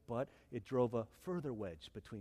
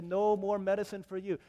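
raised, higher acted refusal; stern refusal; 6 semitones higher, 6 dB louder than usual. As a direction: announce the ban loudly, acting it. Missionary refusing sick villagers.

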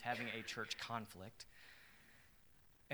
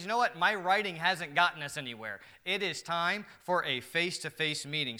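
voicing John; 3 semitones higher, 9 dB louder than usual. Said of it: "So maybe he says".

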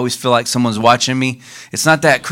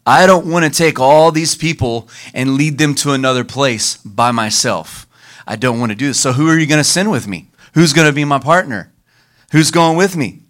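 a touch of Moses pleading, rising louder; 3 semitones higher, 3 dB louder than usual. Retold or imitated. Moses begging God not to send him alone, pleading. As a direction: plead as a reluctant leader. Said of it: "what Moses was telling God".

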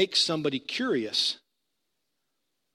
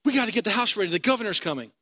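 higher, urgent half-asleep wife; urgent sleepy wife; 6 semitones higher, faster than usual. Retold or imitated. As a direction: imitate her waking him in a panic. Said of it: "jumps up out of bed one night and says".

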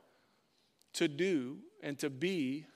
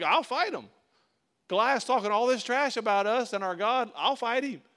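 higher, louder, eager insistence; insistent young challenger; 4 semitones higher, 5 dB louder than usual. Acted. Young David volunteering to King Saul, insistent. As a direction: press your case to the king, pitched up.

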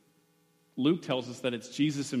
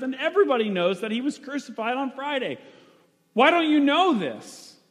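frustrated Cleopas; 10 semitones higher, 5 dB louder than usual. Acted. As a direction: pour out his frustration, almost shouting at the stranger. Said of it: "and he's frustrated".

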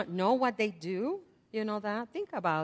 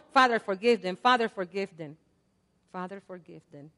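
prayer fading out. Acted. Repeated prayer fading away.

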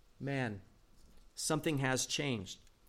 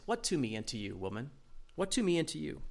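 soft literal rendering; 6 dB quieter, faster than usual. Shown as a demonstration. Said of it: "That's literally how it is".

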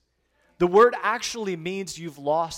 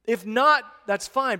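higher, louder, breezy give-up; mock resigned shrug; 5 semitones higher, 7 dB louder, slower than usual. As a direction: toss it off as no big deal. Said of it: "actually said".

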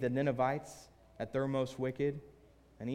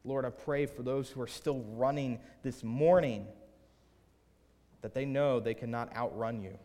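earnest spoken prayer in measured phrases; congregational prayer. Real, not acted. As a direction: address God with deliberate pauses. Leads the closing prayer.

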